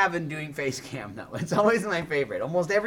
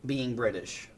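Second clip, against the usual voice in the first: mock intervention; 3 semitones lower than usual. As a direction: lay it on gently like an intervention.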